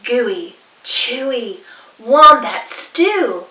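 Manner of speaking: slow, drawn-out proud boast; boastful. Acted. Dingo boasting to emu about his stew, slow. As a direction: brag about your stew. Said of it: "boasted Dingo".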